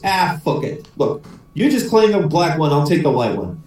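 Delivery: resigned Irish brogue; Irish accent. Acted. Paddy gives up and splits the pigs, Irish accent. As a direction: give up in a light Irish lilt. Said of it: "try out my Irish accent".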